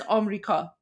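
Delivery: "Amrika" in three syllables, Persian style; Persian pronunciation. Shown as a demonstration. Streamer teaching viewers the Persian "Amrika", demonstrated plainly. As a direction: say "Amrika" the Persian way, open first A. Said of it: "the way that we pronounce America".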